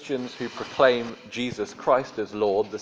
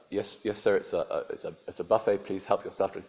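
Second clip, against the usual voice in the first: quiet, hesitant, stammering reply; lightly voiced timid hotel waiter; nervous waiter; 5 dB quieter, faster than usual. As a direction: mumble back like a flustered waiter. Waiter Michael answers.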